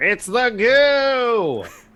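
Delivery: loud, high shouting. In the game, Theodore tries to warn Gwen, screaming over a storm.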